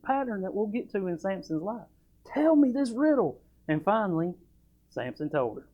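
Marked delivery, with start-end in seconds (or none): 2.3-3.4 mock nagging. Mocking the nagging wife.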